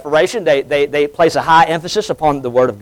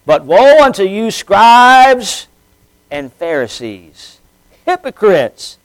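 raised, emphatic scripture delivery; preached scripture reading; 4 semitones higher than usual. Acted. Preacher reading a rebuke to the Pharisees, emphatic proclamation. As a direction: proclaim the woes with deliberate weight. Reads scripture aloud with force.

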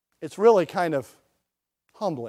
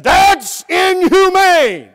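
high, loud, slow mock outrage; mock outraged protest; 10 semitones higher, 10 dB louder, much slower than usual. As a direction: ham up the activists' shocked cry. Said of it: "And they said".

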